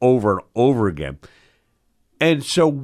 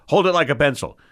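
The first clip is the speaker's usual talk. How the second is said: stern surgeon's repeated order, pitched up; imitating a barked command; retold yelling; 6 semitones higher, faster than usual. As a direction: correct the trainee more insistently, voice higher. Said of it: "he yells at me".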